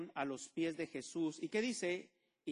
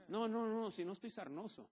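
laughing joke; 5 semitones higher than usual. Retold or imitated. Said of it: "pastor retells his joking reply".

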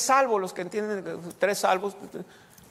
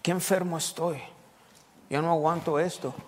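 mock sick complaining; 6 semitones lower, 6 dB quieter than usual. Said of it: "y están hablando".

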